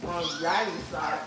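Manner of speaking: mouth full. Real, not acted. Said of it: "Let me just finish chewing".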